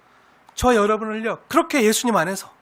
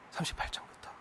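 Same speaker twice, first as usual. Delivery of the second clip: 삼십팔 장부터 whispered, much softer, unvoiced; 18 dB quieter than usual. Shown as a demonstration. Preacher repeating the chapter number, whispered. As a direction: breathe 삼십팔 장부터 as an aside. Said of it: "repeat whispered".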